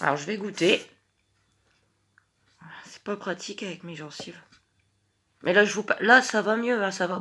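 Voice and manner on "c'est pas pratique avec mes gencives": whispering. Real, not acted. Aside while tasting.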